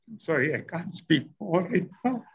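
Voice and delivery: too moved to go on, halting to a close; emotional. Real, not acted. Mourner excusing himself from speaking further, emotional. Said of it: "emotional to speak right now".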